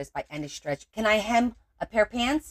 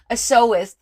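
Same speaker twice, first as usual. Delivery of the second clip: teasing repeat of a fancy word, louder; a playful scoff, louder; mocking repeat; 4 semitones higher, 9 dB louder than usual. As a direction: echo the word back with a mock-posh sneer. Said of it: "That's cute".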